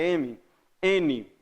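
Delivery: "M" and "N" named apart, sound sent to the nose; spaced demo of "M, N"; nasal consonant demo. Shown as a demonstration. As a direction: hum the nasal in "M" and "N". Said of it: "o som vai pro nariz".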